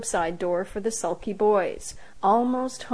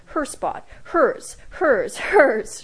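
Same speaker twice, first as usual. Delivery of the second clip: gleeful cackle; 5 semitones higher, 5 dB louder, much slower than usual. A narrator's reading. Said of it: "she cackled".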